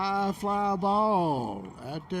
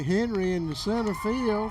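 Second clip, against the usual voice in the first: excited call; 4 semitones higher than usual. Real, not acted. Excited fly ball call.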